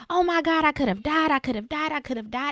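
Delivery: imitated shock, repeated in a rush; retold panicked cry. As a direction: replay a frantic outburst without really screaming. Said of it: "I'm screaming and I'm crying".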